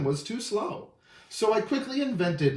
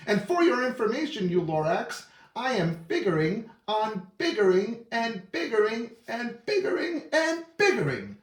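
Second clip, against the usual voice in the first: defiant rant; 3 semitones higher than usual. Acted. Onceler ranting on.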